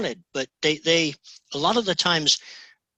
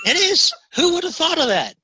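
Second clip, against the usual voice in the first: laughing insistence; 12 semitones higher, 5 dB louder than usual. Real, not acted. Host insisting amid shared laughter.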